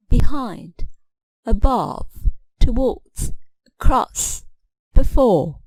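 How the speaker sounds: "behind, above, towards, across, before", each stressed on its second syllable. Shown as a demonstration. Teacher listing prepositions, "behind, above, towards, across, before" stressed on second syllables. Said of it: "two-syllable prepositions stress the second syllable".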